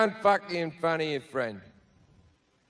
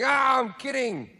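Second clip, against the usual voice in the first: mock backpedal; 3 semitones higher than usual. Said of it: "cover your steps very quickly by going".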